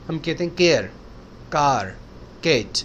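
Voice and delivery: केयर, कार, कैट with a plain Hindi क; केयर said flat with no breath after K; unaspirated K, wrong way. Shown as a demonstration. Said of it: "जो गलत होता है". (केयर बिना ह के, गलत तरीका)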